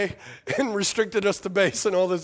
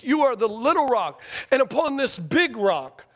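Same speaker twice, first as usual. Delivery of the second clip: weighty contrast of "little" and "big"; deliberate stress on "little rock", slowing for "big rock"; emphatic. Retold or imitated. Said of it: "it's emphatic".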